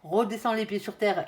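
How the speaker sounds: slow, loud mock warning; a hammed-up family caution to come back to earth. Family warning the lovestruck one, slow loud mock caution. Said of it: "est en train de vous dire".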